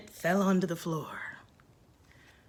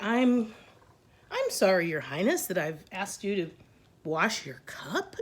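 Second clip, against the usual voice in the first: sarcastic attitude. Retold or imitated. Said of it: "with an attitude".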